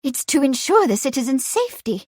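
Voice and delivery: put-on high-pitched, eager young lady; excited young woman's voice; excited explaining. A narrator's reading. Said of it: "Patsy explained excitedly".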